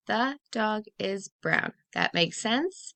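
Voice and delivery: slow, clear read-through; slow reread. Shown as a demonstration. Teacher rereading with class, slow and clear. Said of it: "Let's read it one more time".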